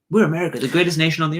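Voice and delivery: lightly puffed-up imitation of national pride; boastful American. Mocking why people can't get on board, boastful American.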